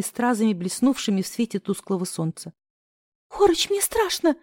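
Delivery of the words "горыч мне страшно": high, scared whimper. A narrator's reading. She whimpers to her friend under fire. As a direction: whine it out in panic. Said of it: "проскулила я".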